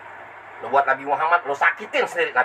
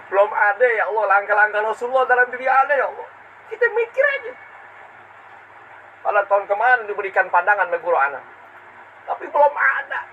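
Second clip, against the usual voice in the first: raised, pleading preacher's voice; impassioned preaching; 4 semitones higher, 3 dB louder than usual. Acted. Preacher lamenting to the congregation, impassioned. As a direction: lift it into an anguished appeal.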